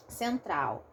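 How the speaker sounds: Central with the N unsounded, nasal vowel; own pronunciation. Shown as a demonstration. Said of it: "Eu não falo central".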